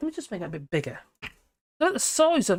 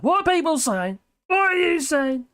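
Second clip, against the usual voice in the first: "What are people saying?" lifted higher, sing-song; sing-song question; 8 semitones higher, 3 dB louder than usual. Real, not acted. Streamer calling out to chat, higher and sing-song. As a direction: chirp the question upward.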